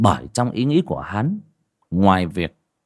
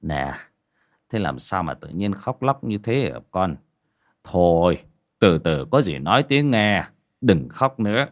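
gentle father; 2 semitones lower than usual. Acted. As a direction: soothe a crying child. Father soothes crying daughter.

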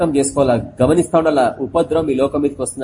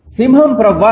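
higher mock cry from the tower; watchman crying out; 5 semitones higher than usual. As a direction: call out the lion to the lord. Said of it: "అని అరుస్తున్నాడు". (బురుజు మీద నుంచి కేక)

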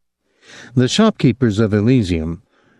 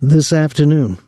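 stubborn; 7 semitones higher, 3 dB louder than usual. Acted. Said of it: "he said stubbornly".

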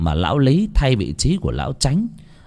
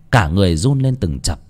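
ordinary delivery

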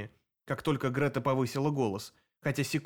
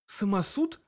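horrified; 7 semitones higher, slower than usual. A narrator's reading. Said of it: "в ужасе спросила я".

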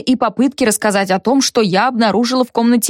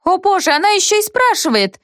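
indignant; 10 semitones higher than usual. A narrator's reading. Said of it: "возмутилась Зося".

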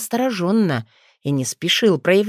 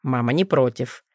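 reassuring; 5 semitones lower than usual. Acted. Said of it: "заверил его Нейтан".

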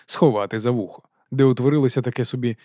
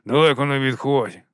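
side-of-the-mouth talk. Acted. Corporal reassures the new recruit, talking from the mouth's corner. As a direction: squeeze it out of one side of the mouth. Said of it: "розмовляти кутиком рота".

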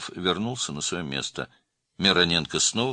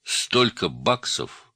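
usual speaking voice

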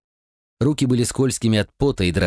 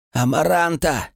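higher, hoarse gasping call; hoarse croak; 7 semitones higher than usual. Acted. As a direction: croak out her name, sick and weak. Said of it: "прохрипел Страф".

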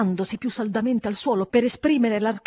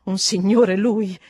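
slow, louder, astonished; stupefied question; 7 dB louder, slower than usual. A narrator's reading. Housekeeper stunned that he is called a gentleman, stupefied. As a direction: draw it out in disbelief. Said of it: "balbettò confusa, stupita".

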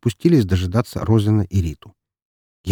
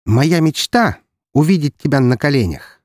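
haughty; 7 semitones higher than usual. Acted. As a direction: look down on him. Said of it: "высокомерно бросила она".

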